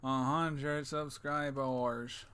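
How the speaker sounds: drawn-out, very slow; very slow announcement. Shown as a demonstration. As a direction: stretch every word slowly. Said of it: "Oh, whoops".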